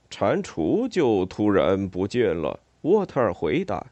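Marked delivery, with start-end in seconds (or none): 0.1-2.6 low, slow otter answer; reply low and unhurried; otter character. Acted. 沃特尔回答，水獭角色声音.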